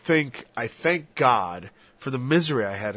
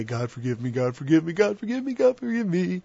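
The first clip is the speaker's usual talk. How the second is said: rising, pleading repeats, higher each time; mock pleading sinner; 4 semitones higher than usual. Mocking the glib sinner, rising mock pleading. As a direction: parody a glib sinner begging forgiveness.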